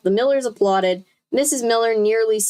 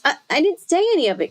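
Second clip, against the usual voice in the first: stammering; 7 semitones higher, faster than usual. A narrator's reading. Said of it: "Chris stammered".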